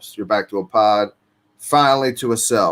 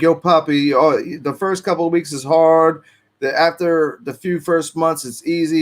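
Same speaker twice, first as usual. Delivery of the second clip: veteran guard reassuring; 5 semitones higher than usual. Retold or imitated. Veteran guard coaxing the new guy to stay, reassuring. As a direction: talk the rookie down gently, like an old hand. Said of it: "And other was like".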